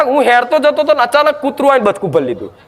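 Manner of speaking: a lightly voiced villager complaining; complaining bystander. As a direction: rattle it off like a miffed villager. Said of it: "અમુક નહીં કહેતા".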